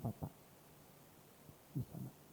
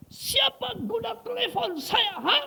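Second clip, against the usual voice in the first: high-pitched, drawn-out furious yell; angry shout; much slower than usual. Retold or imitated. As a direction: act out an enraged man yelling. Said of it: "dia marah-marah".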